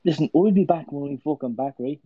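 put-on cocky Irish accent trash talk; Conor McGregor voice. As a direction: snarl it in a brash Irish accent. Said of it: "I can do this as Conor McGregor".

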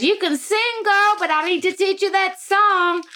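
mimicking a singer's teasing praise; imitating a singer. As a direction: tease the newcomer like a soul queen. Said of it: "she goes".

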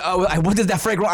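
put-on "what is that fragrance" rushed, nearly plain, accent lost; fumbled accent redo. Co-host trying to redo the bit, accent gone. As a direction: stumble through "what is that fragrance" failing to find the voice. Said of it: "I can't even do it".

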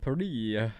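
Paris drawn out in a put-on French accent; "Paris" as pa-REE, French style. Shown as a demonstration. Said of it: "That's my French accent".

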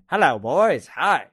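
hammed-up hello, breaking into a laugh; Mister Hand impression. Host channels Ray Walston on his bike, as a playful impression. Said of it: "Mister Hand".

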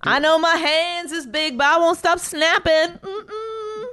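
strut vocally with hammed-up confidence; sassy, self-loving mock diva; transvestite impression. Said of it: "that's my transvestite voice".

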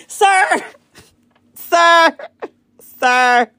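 high laughing cry of sir. Real, not acted. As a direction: laugh it out, half scolding. Laughing fond scolding.

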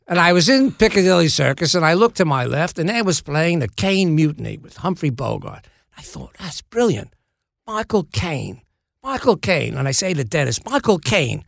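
mock-Cockney storyteller; imitated Cockney, savouring the name; Michael Caine. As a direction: relive a brainwave as a rough London star impression. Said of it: "This is a terrible Michael Caine impression".

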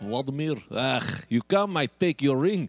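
put-on Russian accent. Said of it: "let me do Russian".

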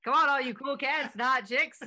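hammed-up vintage announcer; 1930s radio announcer. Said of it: "nineteen thirties radio announcer".

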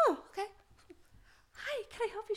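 soft, high-pitched mock customer-service voice; timid attendant. New flight attendant answering a passenger's call bell, timid. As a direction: imitate a nervous newcomer answering, small and high.

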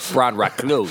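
choppy speech-synth voice; like a broken talking computer; glitching robot. Shown as a demonstration. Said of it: "Like Stephen Hawking".

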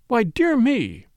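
high, slow, startled exclamation; a mildly startled old lady's "dear me"; sudden surprise. Acted. Miss Gannett realising her mahjong hand, suddenly surprised. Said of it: "said Miss Gannett suddenly".

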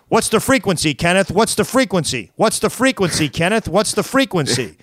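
pressing, obsessive demand; paranoid attacker. Retold or imitated. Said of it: "kept saying".

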